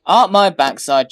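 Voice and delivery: loud scoffing retort; scornful shout. Acted. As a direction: bark it back in scorn. Brother scoffs loudly at aunt.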